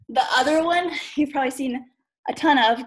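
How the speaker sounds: panting after burpees; breathless, gasping between words; out of breath. Real, not acted. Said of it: "Gosh, I'm out of breath now".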